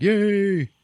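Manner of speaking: high, gleeful little "yay"; mock cheer. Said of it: "it's all like".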